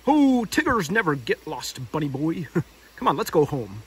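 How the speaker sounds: hint of Tigger swagger; lightly voiced Tigger. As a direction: reassure the bunny playfully.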